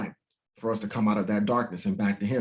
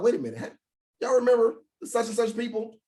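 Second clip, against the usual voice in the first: rising, higher, laughing mock bafflement; imagined bewildered remark; 12 semitones higher than usual. Preacher imagining his people noticing their enemies gone, amused. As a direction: play it puzzled.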